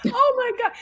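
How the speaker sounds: slow, laughing repeat through tears of laughter; breathless laughter at a friend's verdict. Real, not acted. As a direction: crack up while repeating the words.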